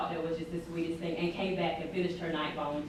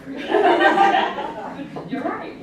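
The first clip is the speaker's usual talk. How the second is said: laughing; 12 semitones higher, 13 dB louder, much slower than usual. Real, not acted.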